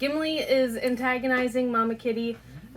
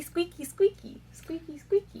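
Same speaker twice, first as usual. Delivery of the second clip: squeaky voice; 6 semitones higher than usual. Acted. Imitating the dog toy squeak.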